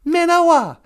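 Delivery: Minawa said clearly with a falling end; feed the learner the next word; prompting the word. Shown as a demonstration. Host prompting caller with the missing Ojibwe word. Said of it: "How is that now?".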